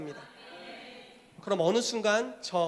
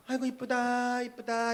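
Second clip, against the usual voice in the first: a hint of a doting caregiver, higher; doting pastor; 5 semitones higher, slower than usual. Pastor receiving the baby believer, lightly doting. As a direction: coo over the newborn lightly. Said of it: "이렇게 막".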